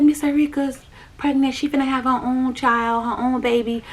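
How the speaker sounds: breezy, easy telling, no edge; not nasty. Retold or imitated. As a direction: break the news gently to small kids. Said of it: "I wasn't, like, nasty".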